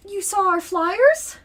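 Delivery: high, surprised worried woman; anxious tired mother. Acted. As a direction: sound startled and hopeful. GM voices Ronnie.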